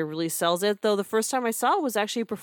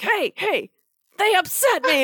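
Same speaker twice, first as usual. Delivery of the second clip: much higher whiny prince; 13 semitones higher, 4 dB louder than usual. Retold or imitated. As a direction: whine it up high, half-spoken. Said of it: "He just makes it going like".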